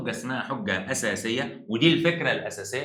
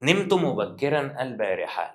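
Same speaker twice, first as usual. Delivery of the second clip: slow example reading; 2 semitones higher, slower than usual. Shown as a demonstration. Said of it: "ماشي".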